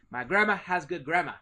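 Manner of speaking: Boston accent, final R dropped in grammar. Shown as a demonstration. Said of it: "if I was from, uh, Boston".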